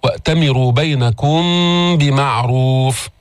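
slow "بينكم بمعروف" with a held hum before the b; hidden meem. Shown as a demonstration. Teacher shows ikhfa, nasal hum between "بينكم" and "بمعروف". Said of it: "بغنة عند الباء".

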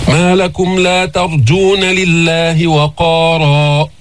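slow, drawn-out tajweed recitation; Quran recitation. Shown as a demonstration. Teacher recites the verse for his students, slow melodic tajweed. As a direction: chant each verse slowly and melodiously.

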